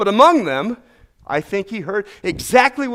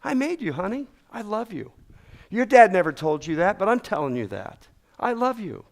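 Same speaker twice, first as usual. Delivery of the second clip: soft, tender fatherly voice, drop it down; like a father whispering love to his child; God speaking tenderly; 4 dB quieter than usual. Acted. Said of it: "he says".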